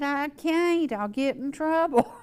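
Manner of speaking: a mock-exasperated outburst; beyond riled up. Friend protesting he'd get in trouble on air, riled-up outburst. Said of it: "now he is beyond riled up".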